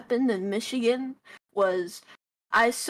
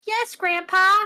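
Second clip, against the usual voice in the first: put-on eager child voice; 8 semitones higher, 7 dB louder than usual. Child voiced in grandpa story.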